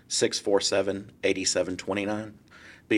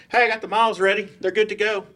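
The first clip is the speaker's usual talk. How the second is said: much higher and louder, bursting with good news; excited news; 13 semitones higher, 6 dB louder, faster than usual. Retold or imitated. Partner phoning years later with good news, excited and much higher. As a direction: hand over the news like a gift.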